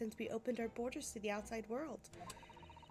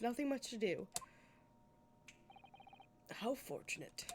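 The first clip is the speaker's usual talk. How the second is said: stately judge; 3 dB louder than usual. Acted. Voices the Lord Chief Justice.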